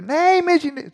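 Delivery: high, loud shouted no; leading the crowd in the kids' yell; yelling it again. Retold or imitated. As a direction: belt it out harder. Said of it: "försöker att köra lite mer".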